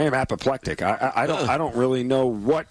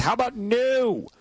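dismissive; 10 semitones higher, slower than usual. Acted. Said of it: "I'm gonna go with".

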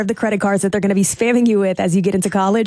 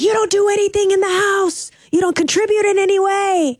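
high-pitched imitation of a fed-up mom; mock mom scolding, held high on one pitch; frustrated mom; 11 semitones higher than usual. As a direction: put on a high, nagging mother voice. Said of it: "the mom was truly frustrated".

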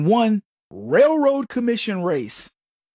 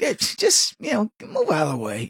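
mild snap. Retold or imitated. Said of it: "I said it the way, it was just nondescript".

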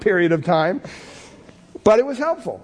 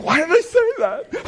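higher, slow, laughing at himself; embarrassed laugh; 11 semitones higher than usual. Retold or imitated. Embarrassed after saying love you.

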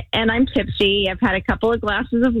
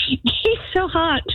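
laughing; 7 semitones higher, slower than usual. Real, not acted. Laughs while admitting attraction.

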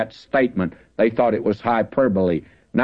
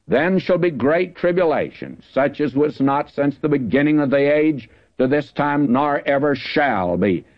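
raised, grave verse reading; scripture reading; 3 semitones higher than usual. Acted. Preacher rereading the verse to the congregation, grave. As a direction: proclaim it as final truth.

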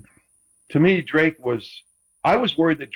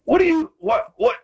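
sharply higher, incredulous what; real surprise at the shirt jab; startled disbelief. Real, not acted. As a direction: caught off guard, pitch jumping up. Surprised at smedium shirt question.

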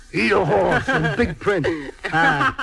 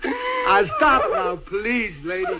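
tearful; 3 semitones higher, slower than usual. Acted. Driver begging the widow to let him stop crying. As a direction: beg through tears.

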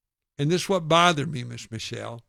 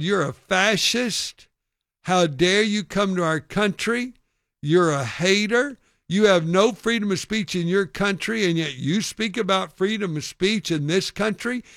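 louder, higher mock heckler; retold angry accusation; 4 semitones higher, 4 dB louder than usual. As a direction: lay into the speaker as an outraged heckler. Retold angry heckler attacking him.

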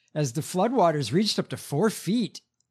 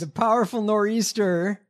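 put-on a half-hearted try at a Northeast accent, a bit louder; failed Northeast accent; 4 semitones higher, 4 dB louder than usual. Reading a news headline, attempting a Northeast accent and failing. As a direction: reach for a Northeast accent on powerful nor'easter and miss. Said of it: "I can't do a north, e-, northeast accent".

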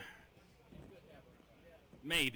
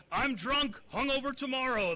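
high, loud, gleeful mock player voice; quoting the player; 12 semitones higher, 6 dB louder than usual. Host quoting the drunk player on live TV, high loud mimicry. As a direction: squeal it out like the giddy player. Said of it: "he said, and I quote".

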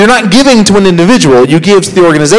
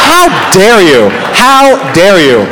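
slow mock indignation; 2 semitones higher, much slower than usual. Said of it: "mock indignation at moaning crowd".

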